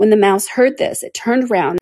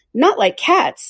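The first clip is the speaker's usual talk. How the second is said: high, shrill, impassioned, passionate delivery; 6 semitones higher than usual. Narrator voicing the mouse replying to Alice, in a shrill, passionate voice. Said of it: "said the mouse in a shrill, passionate voice".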